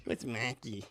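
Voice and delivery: imitated family pronunciation of "Marky"; accented name. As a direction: drop the R in "Marky". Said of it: "Instead of Mark, it was like".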